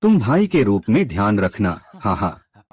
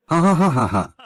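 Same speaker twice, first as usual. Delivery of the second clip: mocking laughter; 6 semitones higher, faster than usual.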